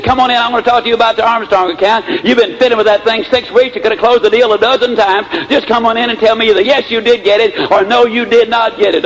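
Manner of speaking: high, insistent boss, no real shouting; retold loud demand. Boss summoning his sales manager about an account, mock irritation. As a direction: imitate an impatient boss demanding a straight answer. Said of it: "In a very loud voice".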